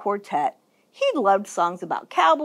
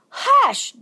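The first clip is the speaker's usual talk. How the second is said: high, sharp shush; scolding hush; 13 semitones higher, 3 dB louder than usual. A narrator's reading. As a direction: scold him as his daddy. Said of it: "Daddy scolded".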